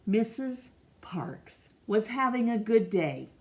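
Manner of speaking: steady, gentle read-aloud for a class; story narration. Acted. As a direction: read it like a picture book to children. Reads picture book aloud.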